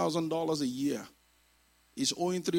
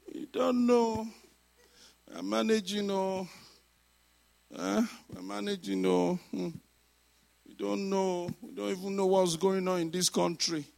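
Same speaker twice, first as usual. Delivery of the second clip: mock dejected reply; 3 semitones higher than usual. Acts out dispirited churchgoers answering greeting.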